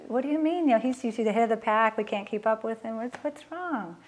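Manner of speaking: mock alarm at her son giving up; retold alarmed surprise. Mother alarmed when her son sits down on the walk, surprised. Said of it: "And I was like".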